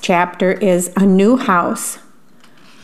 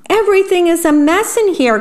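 higher and fast, frantic; flustered fast cry; 9 semitones higher, faster than usual. A narrator's reading. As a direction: rush it out in dismay. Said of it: "cried the worm".

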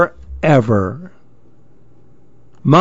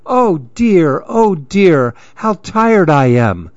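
tired complaint; 4 semitones higher than usual. Acted.

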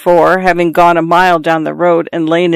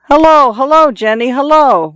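calling out; 8 semitones higher than usual. A narrator's reading. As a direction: hail her from across the pond.

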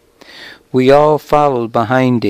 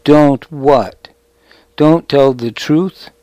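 mocking whine, pitched high; 3 semitones higher than usual. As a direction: whine it back at him in mockery. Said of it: "He pitched his voice into a high whine".

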